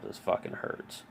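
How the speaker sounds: whispered through the pain. Retold or imitated. Stuck on the floor, whispering through pain. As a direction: breathe it out, barely voiced. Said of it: "I'm like".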